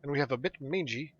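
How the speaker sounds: dwarf quest giver. Acted. Dwarf thanks adventurer and assigns next task, earnest dwarf voice. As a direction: send the adventurer off like a dwarf elder.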